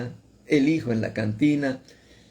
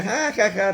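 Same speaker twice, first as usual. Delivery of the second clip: mock laughter; 7 semitones higher than usual. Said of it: "riéndose".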